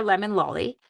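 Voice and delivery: put-on light British accent on the name. Showing viewers the color name, British accent. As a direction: say it with a hint of British. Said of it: "I want to have an accent".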